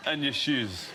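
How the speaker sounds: badly faked Scottish accent. Mimicking Dragons' Den investors making an offer, bad Scottish accent. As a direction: attempt a Scottish accent and get it wrong. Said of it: "It's the worst Scottish accent in the history of accents".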